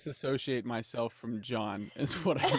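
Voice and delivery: laughing through a protest. Real, not acted. Denying involvement with John while friends tease, laughing.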